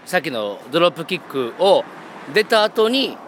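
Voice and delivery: tipsy, slurring a little. Real, not acted. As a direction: talk like you've had a few. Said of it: "ベロベロですよ、もう".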